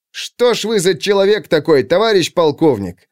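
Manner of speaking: heated outcry, pitch up; exclaiming in anger. A narrator's reading. Captain exclaims at the colonel in exasperation. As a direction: cry it out in exasperation. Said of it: "в сердцах воскликнул Витвицкий".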